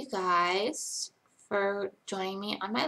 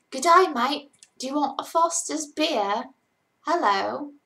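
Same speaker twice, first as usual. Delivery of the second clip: higher, louder Australian accent; 5 semitones higher, 6 dB louder than usual. Shown as a demonstration. Streamer does requested Australian accent for the chat, hammed-up Australian accent. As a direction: put on a lively Australian accent. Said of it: "Okay, Australian accent".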